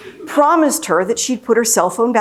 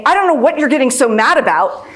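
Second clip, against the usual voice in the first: dismissive snap; 5 semitones higher, 3 dB louder than usual. Retold or imitated. Rude escalating reply to a driver.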